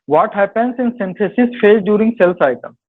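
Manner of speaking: reading the question out slowly; dictating a quiz question. Acted. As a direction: spell out each word for students. Reads quiz question aloud.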